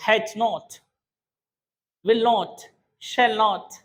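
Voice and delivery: British-style NOT with a rounded "o"; British pronunciation. Shown as a demonstration. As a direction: model the British NOT, one pair at a time. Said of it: "इसका pronunciation British वाला बोलता है". (British लहजे में NOT को "नॉट" बोलना)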